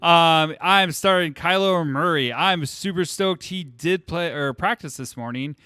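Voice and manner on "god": high, slow, squealing schoolgirl. Shown as a demonstration. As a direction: gush like an excited schoolgirl. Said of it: "I get really excited and I sound like a schoolgirl".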